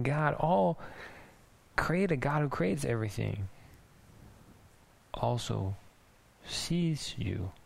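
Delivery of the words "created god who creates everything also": ordinary delivery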